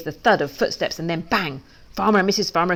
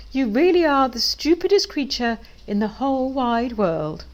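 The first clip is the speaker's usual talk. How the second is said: drawn-out mocking chicken voice; evil chicken, mocking; 5 semitones higher than usual. A narrator's reading. Evil chickens taunting Pig on his return, mocking. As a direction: taunt slowly, stretching the words out.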